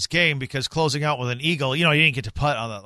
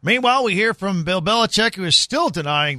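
raised, louder radio segue; sports update read; 6 semitones higher, 4 dB louder than usual. Real, not acted. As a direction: punch the lead-in to the next item. Radio lead-in to impression.

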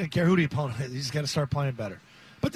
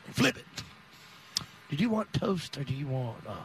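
slow Southern diner waitress; 6 semitones lower, 5 dB quieter than usual. Pretend. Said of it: "You're on Tennessee time".

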